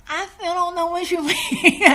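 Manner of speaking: very high whine breaking into laughter; mock wail. Flustered applicant answering the executive, mock wail. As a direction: whine it helplessly, then crack up. Repeats helpless reply, laughing.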